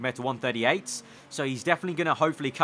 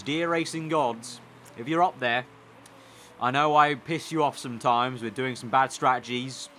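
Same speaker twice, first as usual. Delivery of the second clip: mock prayer. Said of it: "I'm praying to the racing gods".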